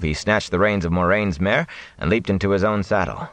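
plain reading voice

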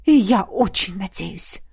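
slow, pointed huff; snorted. A narrator's reading. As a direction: say it with a mild snort. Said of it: "фыркнул жрец". (фыркнув, с нажимом)

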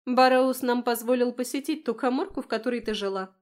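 breathless cheerful queen; gushing excitement. A narrator's reading. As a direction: sweep her off her feet with delight. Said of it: "ошарашила меня Вайолет".

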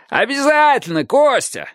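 high, eager call; shouted. A narrator's reading. Roof man promises Kostya, high shout. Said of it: "крикнул человек с крыши".

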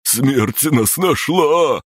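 high, slow terrified squeal; squealing in terror. Acted. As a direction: squeal it out, panicking. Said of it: "взвизгнул каштановый".

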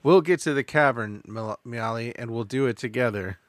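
slow it down and linger; lingering, heartfelt romantic lead; slow, dramatic romantic. Acted. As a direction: savor each word, tender hero. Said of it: "You rushed right past that".

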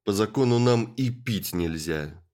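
loud brutish growl; growling bugbear. Acted. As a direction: snap it back like a growling lout. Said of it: "рыкнул в ответ Роб". (рычащий громила)

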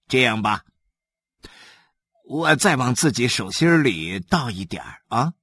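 lightly voiced sly official; a hint of a greedy blood chief talking himself into it; mildly played Li Xuetou, casual and sly.

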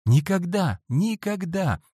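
high, fervent cry; boy fervently refuses to share his secrets; ardent exclamation. A narrator's reading. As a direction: exclaim it with passion. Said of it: "воскликнул я с жаром".

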